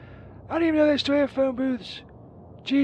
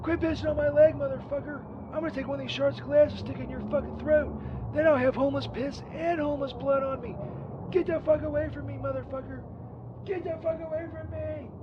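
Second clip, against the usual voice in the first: angry shouting; 3 semitones higher than usual. Acted. Yelling at the homeless guy.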